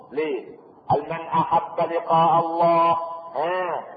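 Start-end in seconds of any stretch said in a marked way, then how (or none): 1.0-3.0 slow, chant-like quoting with drawn-out words; hadith recitation. Acted. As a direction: intone it slowly as sacred text. Preacher quotes a hadith.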